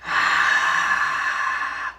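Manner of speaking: slow breathy exhale; demo deep breath. Shown as a demonstration. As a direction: let a long breath out to show how. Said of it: "Just try that".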